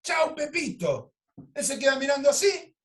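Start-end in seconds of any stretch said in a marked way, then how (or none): 0.0-1.1 high, drawn-out farewell; mock send-off in a raised voice; playful re-enacted goodbye. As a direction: repeat the goodbye high and stretched. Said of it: "dije eso".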